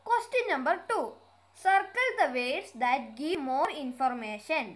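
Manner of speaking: slow, deliberate read-aloud of an English exercise; careful dictation pace; slow textbook reading. Acted. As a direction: read each word out clearly for the class. Reads instruction slowly.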